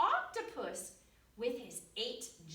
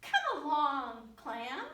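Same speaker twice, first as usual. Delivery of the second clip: 1 calling out; 4 semitones higher, 7 dB louder than usual. Acted. Clam calls out to the fish.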